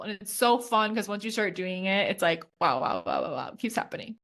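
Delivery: breathless from excitement; talking out of breath. Real, not acted. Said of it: "feel really out of breath".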